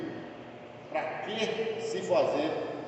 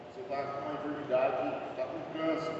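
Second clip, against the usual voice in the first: doctor quietly breaking bad news, lower and softer; grave diagnosis; 5 semitones lower, 7 dB quieter than usual. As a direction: drop low and soft, imitating a doctor. Médico dá diagnóstico de câncer. (médico dando diagnóstico grave, baixo e contido)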